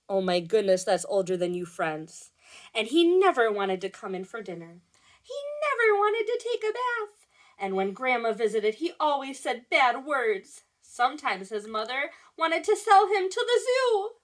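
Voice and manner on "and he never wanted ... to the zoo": lively storybook telling with high outbursts; animated read-aloud. A narrator's reading. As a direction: play up the naughty boy for children. Reads story to children.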